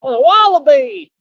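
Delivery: high, loud burst of delight; excited exclaim. Real, not acted. Excited cry on spotting the wallaby. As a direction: call it out, thrilled.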